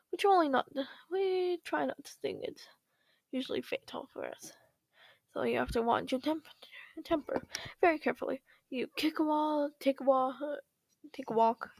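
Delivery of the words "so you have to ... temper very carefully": quick voiceless whisper. Acted. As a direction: whisper the warning. Hushed advice.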